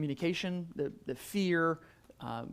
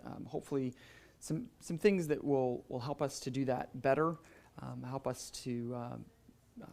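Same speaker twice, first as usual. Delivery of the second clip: soft, lowered voice in prayer; opening prayer; 3 semitones lower, 5 dB quieter than usual. Real, not acted. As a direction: pray quietly, pausing to find the words.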